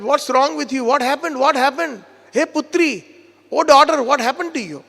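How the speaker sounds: retold alarm, voice lifted; alarmed questioning. Kutila and Jatila ask the wailing girl what happened, alarmed.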